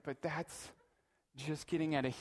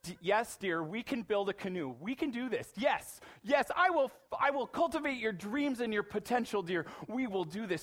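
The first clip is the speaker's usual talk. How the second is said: enthusiastic dad; 5 semitones higher than usual. Retold or imitated. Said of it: "I thought to myself".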